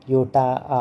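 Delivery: योटा with its final आ held and repeated; stress on the आ ending. Shown as a demonstration. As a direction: sound out the आ at the end of योटा. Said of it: "आ का उच्चारण है". (योटा के अंत में आ पर ज़ोर)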